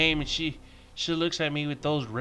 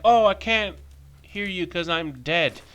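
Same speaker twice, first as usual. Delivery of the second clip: higher-pitched mock rudeness; mock uppity; 5 semitones higher, 5 dB louder than usual. Dead man refusing to listen, mock uppity. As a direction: put on an uppity protest. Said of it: "people get all rude and uppity".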